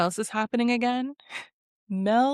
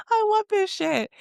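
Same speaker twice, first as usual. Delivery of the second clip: laughing; 13 semitones higher, 4 dB louder than usual. Real, not acted. Own giddy reaction to the scene.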